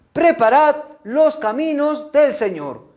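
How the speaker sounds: high, slow proclaiming call; prophet's proclamation. Acted. Preacher voices John the Baptist to children, high solemn proclamation.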